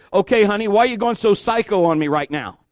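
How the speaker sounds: demonstrated testy, tactless outburst; wrong-way apology. Shown as a demonstration. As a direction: confront a spouse with exasperation, pitch up. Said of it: "example of the wrong way".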